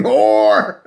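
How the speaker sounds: mock shouted insult; a loud jeering cry; retold shout. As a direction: shout it like an angry crowd on the dock. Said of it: "sisters at the dock shouting".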